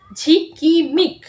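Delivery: ঝিকিমিক split into slow syllables, ঝি-কি-মিক; ঝিকিমিক said in slow, separate syllables. Shown as a demonstration. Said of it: "এইভাবেই তোমরা পড়বে".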